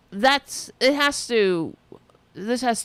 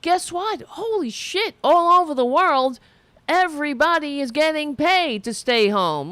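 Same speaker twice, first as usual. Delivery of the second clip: higher, wide-eyed mock surprise; hammed-up astonished reader; mock amazed discovery; 4 semitones higher than usual. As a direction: gasp it out like a sudden revelation. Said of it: "read The Guardian and say".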